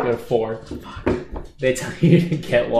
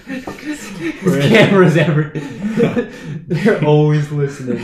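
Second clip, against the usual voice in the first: laughing whisper; 3 semitones higher, 4 dB louder, slower than usual. Pretend. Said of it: "Why are you whispering?".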